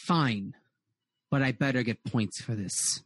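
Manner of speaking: lightly voiced woman, pitched low; a hint of a woman grumbling behind a door; female voice overheard. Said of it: "You hear a female voice go".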